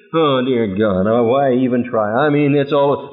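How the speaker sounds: low, mock-despairing sigh of a doubter; a hint of a discouraged churchgoer; despairing believer. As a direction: sound defeated, half-hearted. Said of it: "that's double-mindedness".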